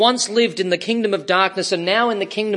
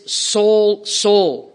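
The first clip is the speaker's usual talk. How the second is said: passionate call; 3 semitones higher, 3 dB louder than usual. Acted. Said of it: "notice the way the Lord speaks".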